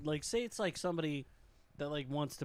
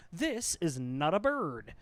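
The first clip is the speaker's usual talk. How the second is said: deadpan hint; 4 dB louder, slower than usual. Retold or imitated. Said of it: "He goes".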